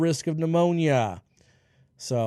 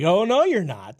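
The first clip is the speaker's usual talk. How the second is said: firm dad refusal; 5 dB louder than usual. Retold or imitated. Dad forbidding the stunt, retold.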